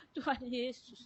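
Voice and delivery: soft, lightly imitated plea; retold tearful calling. Patient cries briefly to Jesus, softly imitated weeping. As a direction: mimic a weak cry for help quietly. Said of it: "Dia nangis cuma berapa lama".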